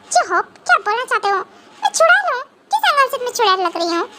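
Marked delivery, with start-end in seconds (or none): 1.8-4.1 high, indignant outburst; mock offended. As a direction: bristle at the insult, half playful. Wife offended at being called witch.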